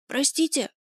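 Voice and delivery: high, scared, breathless apology; frightened breathless whisper. A narrator's reading. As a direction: gasp it out in fear. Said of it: "прошептала, задыхаясь". (испуганный шёпот, задыхаясь)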